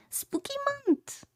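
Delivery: high, slow eerie whisper; spooky whisper. Acted. Streamer teasing the spooky month in a whisper. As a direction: breathe it like a ghost story.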